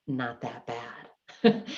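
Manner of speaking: very slow, drawn-out deadpan with a rising tune; ironic understatement. Retold or imitated. Daughter seeing the messy garage, slow ironic deadpan. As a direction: stretch out "Not that bad" slowly with a sarcastic rise. Tolerance had completely changed.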